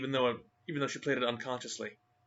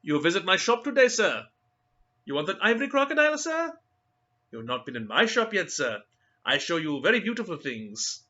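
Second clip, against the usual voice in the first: suave, persuasive; 7 semitones higher, 6 dB louder than usual. Acted. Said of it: "suave, persuasive accents".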